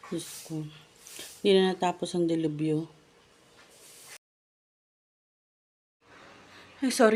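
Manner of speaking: out of breath, panting. Talking to viewers after a commotion, out of breath. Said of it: "hinihingal ako".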